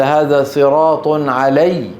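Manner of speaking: علي with the doubled ya pressed, slow. Shown as a demonstration. Teacher to students, the pressed ya in علي. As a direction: lean into the ya of علي. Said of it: "كل ياء مشددة ... ينتقلون بضغط".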